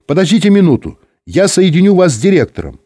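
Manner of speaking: high-pitched, flustered operator; slightly agitated woman. A narrator's reading. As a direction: put them through with mild excitement. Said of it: "Женский голос стал немножко взволнованным".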